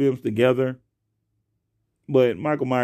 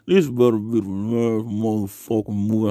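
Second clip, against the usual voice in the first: tight-lipped mad black parent; 4 semitones lower than usual. Retold or imitated. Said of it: "A black parent's lip get tight?".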